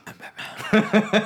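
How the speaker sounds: playful hero demo with a laugh in it; Batman. Shown as a demonstration. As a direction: show off a supposedly real superhero voice. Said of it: "do a real Batman voice".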